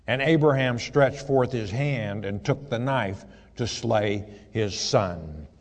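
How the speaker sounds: slowing down on the last words; scripture reading. Acted. Reads the knife verse.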